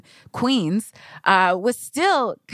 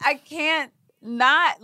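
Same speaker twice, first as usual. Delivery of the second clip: high laughing dismay, slowing down; 8 semitones higher, slower than usual. Real, not acted. Writer laughs at her sitting job, high laughing dismay. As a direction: laugh through the words in mock despair.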